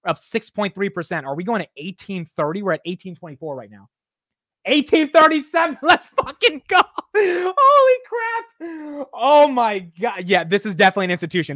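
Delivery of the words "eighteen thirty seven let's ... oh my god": laughing, much higher yelling; screaming with real joy at the rally; ecstatic shout. Real, not acted. Price breaks new high live.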